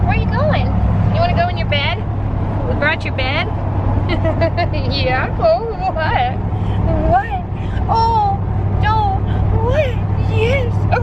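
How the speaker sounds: high, playful pet voice. Real, not acted. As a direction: coo high at the dog. Baby talk to dog.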